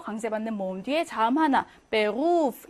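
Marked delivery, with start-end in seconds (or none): 1.9-2.7 "베루프" with "루" held long; German "베루프", drawn-out second syllable; long vowel. Shown as a demonstration. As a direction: stretch the U in "베루프". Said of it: "이렇게 길게 발음해야 합니다".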